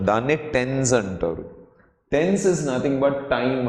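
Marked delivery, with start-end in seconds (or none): 2.1-3.6 very slow, each word spaced out; slow teacher definition. Shown as a demonstration. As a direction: lay it out slowly for the class. Teacher slows for English line.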